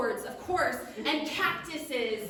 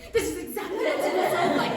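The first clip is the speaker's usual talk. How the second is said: higher, louder, fast little gnome; short gnome voice; 7 semitones higher, 8 dB louder, faster than usual. Shown as a demonstration. Redoing the gnome's line higher because he's very short. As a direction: pitch it up for a tiny gnome. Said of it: "I'm sorry, he's very short".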